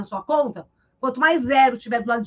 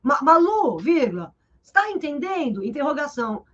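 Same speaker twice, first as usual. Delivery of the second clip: Malu raised, vírgula dropped, a question read out; mock spoken punctuation; 3 semitones higher than usual. Shown as a demonstration. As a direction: parody dictating your own question. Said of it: "Não vou falar". (imitando fala com pontuação)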